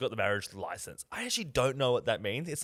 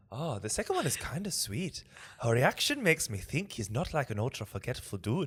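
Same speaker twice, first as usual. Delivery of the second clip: amateur Northern English reading; Northern English accent. Shown as a demonstration. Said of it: "Northern English".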